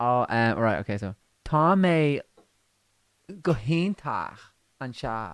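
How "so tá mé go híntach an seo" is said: Irish language spoken with put-on American accent. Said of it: "Can you speak Irish with an American accent?".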